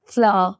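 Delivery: ফ্লাওয়ার as British "flah", no r at the end; one drawn-together syllable for ফ্লাওয়ার, r left silent; UK pronunciation. Shown as a demonstration. Teacher repeating the model for learners, UK pronunciation. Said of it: "যেটা হলো UK pronunciation".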